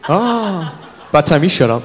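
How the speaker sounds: leering creep murmuring, ending in a slow breathy hush; a slow creepy leer, dropping to a hush; creepy guy. Retold or imitated. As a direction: creep muttering at a woman passing by. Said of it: "he's like".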